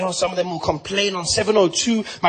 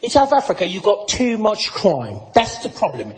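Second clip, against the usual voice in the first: UK guy lecturing. Acted. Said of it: "this guy".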